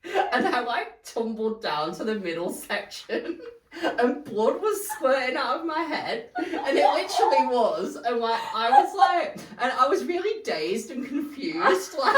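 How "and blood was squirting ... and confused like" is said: laughing. Real, not acted. Telling a bloody fall, laughing.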